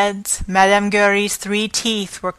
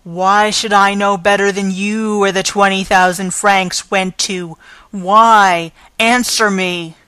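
louder furious roar, peaking on Why; roaring like thunder; 4 dB louder than usual. Acted. Manager to concierge, roaring demand for answer. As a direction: bark it down at her. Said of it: "In a voice growling and rolling like thunder, he roared".

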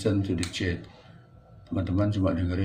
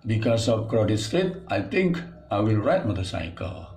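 higher first speaker, slower answers; dialogue reading; 4 semitones higher, slower than usual. Acted. Teacher reading a dialogue to students, slow and clear. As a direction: read the dialogue aloud for learners. Reads both dialogue parts.

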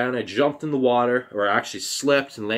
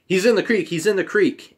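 imitating mom's frantic scream, higher and louder; retold scream; 9 semitones higher, 4 dB louder than usual. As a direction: replay her panicked yelling. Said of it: "screaming at the top of her lungs".

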